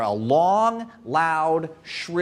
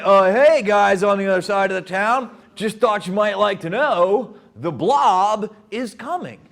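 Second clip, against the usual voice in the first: casual warning. Retold or imitated. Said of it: "they could have just been like".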